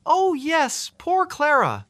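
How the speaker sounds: put-on high, sorrowful elderly woman; sad old librarian. A narrator's reading. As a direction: sigh it with pity. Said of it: "with a sad shake of her head".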